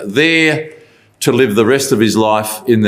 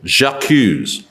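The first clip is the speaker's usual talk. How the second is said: French accent. Shown as a demonstration. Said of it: "I hope you like that French accent".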